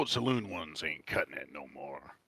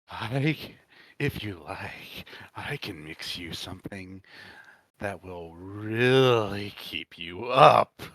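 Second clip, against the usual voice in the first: sly offer; 5 dB louder, slower than usual. Acted. Bartender offering strong drink.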